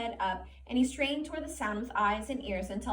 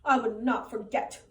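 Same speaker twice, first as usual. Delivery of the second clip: loud, stubborn protest; 7 dB louder than usual. A narrator's reading. Lenny protests to the rabbit, loud protest. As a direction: shout your denial. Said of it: "Lenny said loudly".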